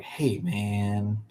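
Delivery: laid-back surfer drawl; hippie surfer dude. Pretend. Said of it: "I sound like a hippie surfer dude".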